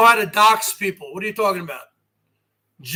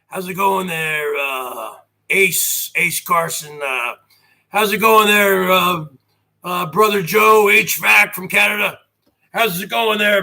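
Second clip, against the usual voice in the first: lightly imitated voice, slightly lower; mock another host's greetings, a mild impression; G Mangos; 3 semitones lower than usual. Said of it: "he talks like this".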